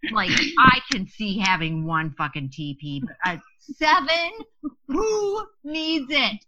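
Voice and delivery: rising disbelief turning to a whine; exasperated whine. Retold or imitated. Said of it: "and just pissed".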